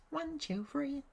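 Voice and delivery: a hint of the mummy groan. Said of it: "identical to the sound he's making".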